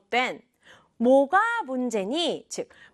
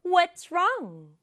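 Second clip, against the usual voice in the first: "What's" and "wrong" raised, each a full beat; both words stressed; 6 semitones higher than usual. Shown as a demonstration. Teacher repeating once more, stress on both words. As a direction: hit "What's", then "wrong" with a fall. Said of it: "둘 다 강조해준다".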